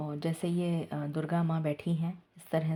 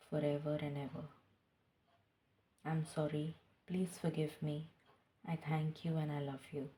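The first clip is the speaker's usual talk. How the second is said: slow, soft devotional prayer voice; a tarot reader opening her reading with a prayer, slow and hushed; invocation prayer; 4 dB quieter, much slower than usual. Acted. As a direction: call on the divine slowly and reverently.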